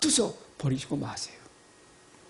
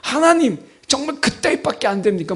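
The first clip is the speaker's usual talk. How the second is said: mock defiance; 2 semitones higher than usual. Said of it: "막 이런 식이잖아요".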